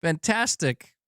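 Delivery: high, gushing imitation of a fan; mocking a fanboy. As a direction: parody an over-keen console fan. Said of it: "You come in here and be like".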